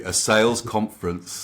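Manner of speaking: measured, deliberate delivery; deliberately slow. Shown as a demonstration. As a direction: spell it out with care. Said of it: "I'll say that really slowly".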